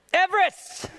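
high, loud, ringing proclamation; booming command. Acted. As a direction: call a mountain into being. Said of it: "Jesus just said".

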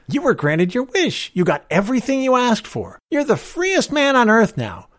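high, emphatic, mocking rebuke; indignant stranger. A narrator's reading. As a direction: throw the granted wish back at him. Stranger scornfully answers George's accusation.

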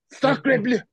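high, hammed-up French exclamation; mock astonishment. Retelling his reaction to Greg, mock astonishment. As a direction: throw it up high in mock amazement. Retold shock at Greg's call.

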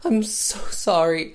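very high, hammed-up mock sobbing apology; theatrical sham weeping; Margaret's fake crying. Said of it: "fake crying to Caroline".

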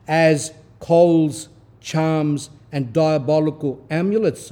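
rising, declaiming sermon read; fervent scripture-style reading; preaching reading. Acted. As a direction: proclaim the text to the flock.

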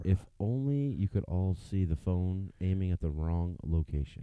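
low, slow narrator voice; hushed wildlife-film narration; nature documentary. Pretend. Continues the mock documentary narration.

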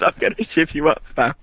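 lightly voiced British road man threat; half-laughing mock street threat; a hint of road-man menace. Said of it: "he's just gonna turn into a road man".

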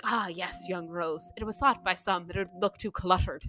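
lightly attempted Irish accent; film gentleman with a touch of Irish brogue; imitated Irish accent, measured. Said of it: "say in an Irish accent".

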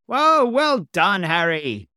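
long, high, slow whoa then loud praise; thrilled shout of praise; delighted cry. A narrator's reading. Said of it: "cried Gomez".

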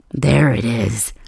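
slow breathy whisper on the discovery. Acted. Whispering slowly to a partner during an intimate moment.

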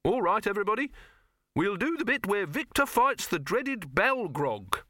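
rally the crew like a harried little film director; fussy director calling crew. Acted. Silverfish calling everybody to shoot the fight, high and fussy.

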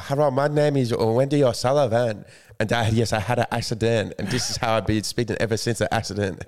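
a hint of an Asian accent, imitating the woman from the video; mock Asian accent. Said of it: "How do you go into an Asian accent".

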